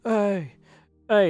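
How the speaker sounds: mild imitated shout; mock scream. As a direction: imitate a screamed refrain, held back. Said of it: "a rapper is just screaming".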